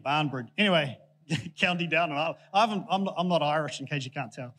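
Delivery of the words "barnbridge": "Barnbridge" with a long AH, falling; BARN pronunciation. Shown as a demonstration. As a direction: settle on "Barnbridge", first syllable like "barn". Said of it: "Oh, yeah, there's no E".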